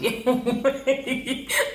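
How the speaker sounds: a high, real burst of laughter. Real, not acted. Recapping the show, she laughs at Woody.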